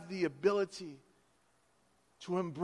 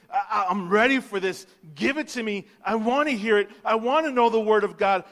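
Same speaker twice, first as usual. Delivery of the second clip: louder, eager plea to be filled; eager believer; 5 dB louder than usual. Acted. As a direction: play a hungry believer begging for the Word. Eager believer voiced in sermon.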